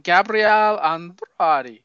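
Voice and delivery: slow Italian-style Gabriel Andrade; Italian accent. Shown as a demonstration. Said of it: "I was saying it like it was Italian".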